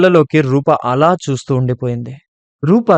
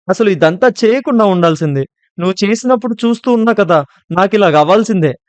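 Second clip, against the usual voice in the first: put-on guilty girl berating herself on the phone; cursing herself; 7 semitones higher than usual. A narrator's reading. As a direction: scold yourself in anguish. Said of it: "తిట్టుకుంటూ".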